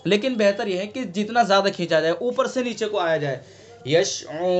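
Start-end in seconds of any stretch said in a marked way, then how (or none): 3.9-4.5 यशउरून with the ऊ held five alifs; five-alif stretch. Shown as a demonstration. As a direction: draw out the ऊ in यशउरून as long as you can. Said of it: "पाँच अलिफ". (यशउरून में पाँच अलिफ खींचना)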